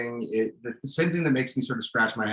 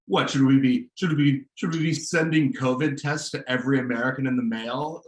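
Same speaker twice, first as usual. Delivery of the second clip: sarcastic; 2 semitones higher than usual. Retold or imitated. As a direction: imitate a press secretary scoffing off a question. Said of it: "like, sarcastically replied".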